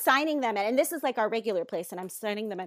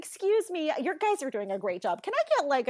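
higher, softened polite request; really nice; 3 semitones higher than usual. Retold or imitated. Embarrassed customer asking the desk girl, really nice. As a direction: sweetly make up for the outburst. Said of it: "really nice".

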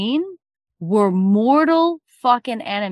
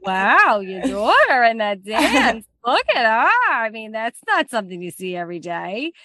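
impressed guests. Acted. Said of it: "They're like".

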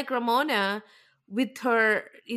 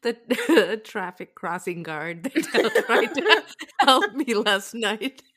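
laughing mock quote; 3 dB louder, slower than usual. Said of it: "She's like".

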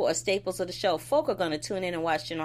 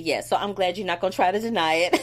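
retold telling-off, louder than usual; mock confrontation; 6 dB louder than usual. Retelling Jax confronting Curtis about his scheme, mock confrontation. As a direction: play up the boss calling him out.

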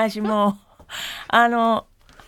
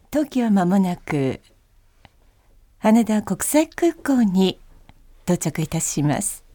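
flight announcement. Shown as a demonstration. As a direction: announce calmly to passengers. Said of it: "飛行機アナウンス風で".

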